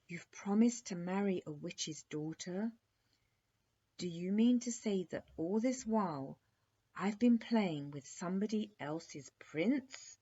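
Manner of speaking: a jilted princess scolding her playmate; angry princess. Acted. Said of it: "was extremely angry".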